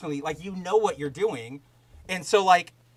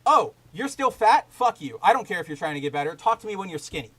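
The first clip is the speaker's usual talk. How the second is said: sneering insult; 4 dB louder than usual. Retold or imitated. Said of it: "Instead of just going".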